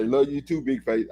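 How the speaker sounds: tossed-off, low and easy; casual shorthand. Shown as a demonstration. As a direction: drop the I, toss it off lightly. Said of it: "I say it like that".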